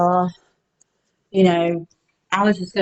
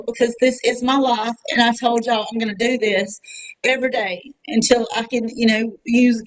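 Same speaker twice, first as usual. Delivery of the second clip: holding back tears; 2 semitones higher than usual. Real, not acted. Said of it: "I'm gonna try not to cry".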